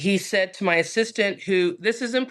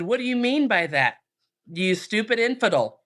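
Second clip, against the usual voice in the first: higher-pitched mock indignation; indignant attacker; 5 semitones higher than usual. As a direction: act out an affronted challenge, voice raised in pitch. Acted threat from an angry attacker.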